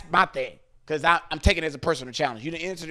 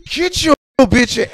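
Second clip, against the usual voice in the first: yelled command; 7 semitones higher, 12 dB louder, slower than usual. Retold or imitated. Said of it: "I said".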